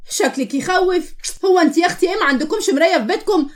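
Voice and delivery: mock her with incredulity; mocking disbelief. Stranger answering the hurt girl, mocking.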